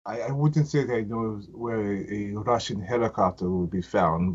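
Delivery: badly faked Russian accent, only lightly put on; a clumsy mock Russian accent, half-hearted; a touch of a bad Russian accent; horrible Russian accent. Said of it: "That was a horrible Russian accent".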